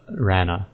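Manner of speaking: Rana with no final r; "Rana" said "RAN-uh"; official pronunciation. Shown as a demonstration. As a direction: end Rana on an open "uh". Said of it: "They take away both of the R's".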